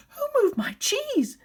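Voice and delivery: high, loud, slow indignant whine; whiny upset humans. Acted. Teacher voicing the outraged humans for the class, high whiny complaint. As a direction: wail it like a spoilt child who lost his cheese.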